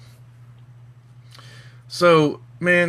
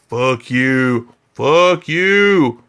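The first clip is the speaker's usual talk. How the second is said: defiant country; 3 semitones lower, 6 dB louder, much slower than usual. Retold or imitated. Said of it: "some other country's like".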